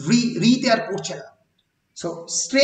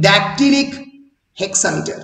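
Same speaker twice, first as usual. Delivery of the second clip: dactylic hexameter, clearly spelled out; teacher stressing the term for the exam; stressed term; much slower than usual. Shown as a demonstration. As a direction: say each syllable of dactylic hexameter carefully. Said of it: "মনে রাখবে".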